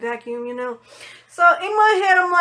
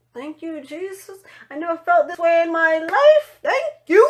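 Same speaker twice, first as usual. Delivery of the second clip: relieved thanks; 4 semitones higher than usual. Retold or imitated.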